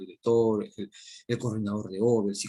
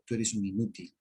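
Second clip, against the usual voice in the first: scolding dad; 2 semitones higher than usual. Retold or imitated. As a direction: play the fed-up father tearing into his child. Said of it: "yo como papá, a mi hijo, le digo".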